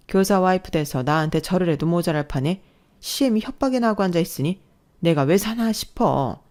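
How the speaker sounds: a self-pitying rant, slowing at the end; ranting mother-in-law. Acted. Mother-in-law ranting to her son about his wife, self-pitying. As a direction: lay the guilt on your son.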